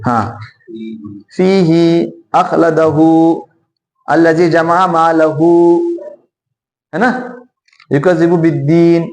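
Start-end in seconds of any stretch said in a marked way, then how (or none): 1.4-5.5 फीही अखलदहु slowly, each ending held long; measured recitation, stretching ही and हु in फीही अखलदहु; two-count recitation. Shown as a demonstration. Teacher recites examples, मालहु with long final हु. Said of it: "दो मरतबा खींचेंगे". 7.9-9.0 युकज़िबु बिद्दीन with दीन held briefly long; two-count stretch. Shown as a demonstration. Teacher demonstrates, युकज़िबु बिद्दीन with lengthened दीन. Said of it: "आपको दो मरतबा खींचेंगे".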